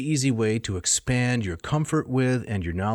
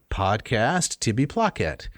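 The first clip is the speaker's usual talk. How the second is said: slow Latin demo; slower than usual. Shown as a demonstration. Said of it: "So the second person singular is Tibby".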